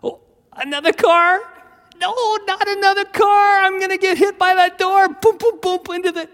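very high, hammed-up panic; scared spitless. Boy spots another car, wailing in mock terror. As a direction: wail like a terrified kid. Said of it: "I was suddenly scared spitless".

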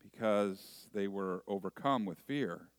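measured, emphatic scripture reading; solemn public reading with deliberate pauses; Gospel reading. Acted. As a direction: read scripture aloud to a congregation, leaning on key words. Reads the Gospel aloud.

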